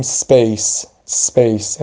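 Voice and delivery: "سپیس" as speys, s running straight into p; correct silent-vowel s. Shown as a demonstration. Teacher models right reading for learners, pure s cluster. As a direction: say "سپیس" as one syllable, no vowel round the s. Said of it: "یعنی ساکن تلفظش کنیم".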